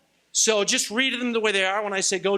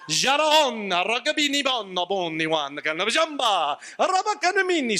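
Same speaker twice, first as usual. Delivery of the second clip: mock Italian gibberish. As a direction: ham up fake Italian sounds. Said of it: "some Italian flair".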